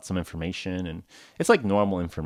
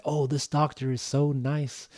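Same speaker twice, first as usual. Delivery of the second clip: high, slow, put-on sweet voice; gushing reviewer; 8 semitones higher, slower than usual. Online reviewers praise the doctor, high gushing voice. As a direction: gush slowly in a high voice.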